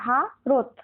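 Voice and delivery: ভারত split in two, ভা, then a closed রত; one breath per syllable. Shown as a demonstration. Teacher gives pupils the correct division, two syllables apart. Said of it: "একবারে কোনটা উচ্চারণ করা যাবে".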